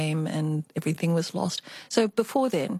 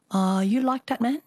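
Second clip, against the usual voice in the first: put-on Chinese accent; 4 semitones higher than usual. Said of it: "I always have to do the Chinese accent".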